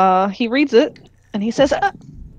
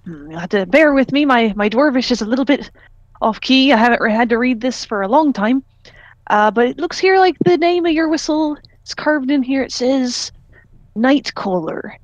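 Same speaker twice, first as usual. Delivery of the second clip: Irish orc voice. Acted. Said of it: "the Gannon orc voice, except less gruff".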